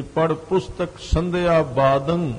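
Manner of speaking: slow recitation, ਬਾਦੰ ending through the nose; nasal ending. Shown as a demonstration. Preacher demonstrates scripture reading, ਬਾਦੰ said slowly with a nasal ending. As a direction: let ਬਾਦੰ hum into a nasal ng, no hard g. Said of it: "ਨੱਕ ਵਿੱਚ ਬੋਲਣਾ".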